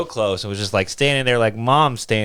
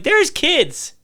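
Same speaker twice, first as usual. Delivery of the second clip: slow complaint; 9 semitones higher, much slower than usual. Retold or imitated. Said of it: "I'm like".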